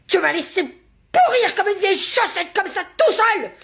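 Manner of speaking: high, slow, wailing complaint; hammed-up outburst. Teacher dictating, lost in a hammed-up heartbroken outburst. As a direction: pour out the heartbreak theatrically. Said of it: "Ça fait partie de la dictée?".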